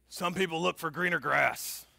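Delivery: put-on lightly gruff old coach; a hint of gravel, coach giving advice. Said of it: "in this gruff voice".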